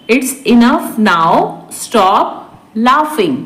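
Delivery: drawn-out teaching pace; slow repeat. Shown as a demonstration. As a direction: separate each word for learners. Teacher repeats translation word by word. (धीरे-धीरे, रुककर)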